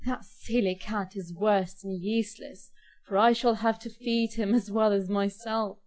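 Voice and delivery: grumbling complaint about the cat. Acted. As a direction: grumble it out, fed up. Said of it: "he grumbled".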